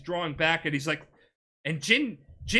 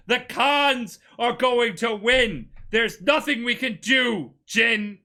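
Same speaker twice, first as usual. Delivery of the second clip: louder, higher, drawn-out dramatic delivery; acted defiant retort; 6 semitones higher, 5 dB louder, slower than usual. Betrayer answering his friend mid-duel, loud defiant retort. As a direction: argue back as the retold betrayer.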